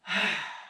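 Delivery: sighing release after a double inhale; shuddering breath. Shown as a demonstration. Trainer shows letting go of tension, shuddering release sigh. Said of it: "we need to let that go".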